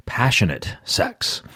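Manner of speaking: soft, slow movie-trailer announcer voice. Real, not acted. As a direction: draw it out softly, like a trailer tease. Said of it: "I even lower my voice as I say".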